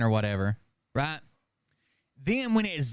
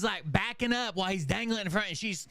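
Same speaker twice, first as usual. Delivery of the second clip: ordinary talk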